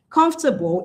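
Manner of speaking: "comfortable" reduced to COMF-tuh-bl; three-syllable comfortable. Shown as a demonstration. Teacher giving the English form, "comfortable" as COMF-tuh-bl. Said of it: "is just three syllables".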